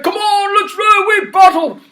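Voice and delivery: high loud battle cry; rally the troops gleefully; king playing war in the tub; excited shout. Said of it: "and he said".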